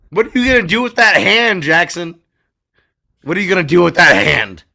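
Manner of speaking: alarmed mock panic. Host alarmed.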